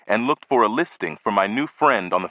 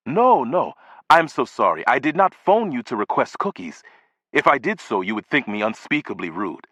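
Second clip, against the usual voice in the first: mortified. Acted. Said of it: "With evident mortification".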